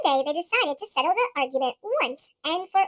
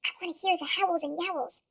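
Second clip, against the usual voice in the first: softer hushed plea; 3 semitones lower, 6 dB quieter than usual. Acted. Grump hushing the others to hear howls. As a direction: keep it low.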